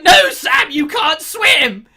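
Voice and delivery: very high, loud hammed-up warning; drawn-out mock cry to a follower; mock Frodo shout. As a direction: yell it as a melodramatic hero. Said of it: "And he's like".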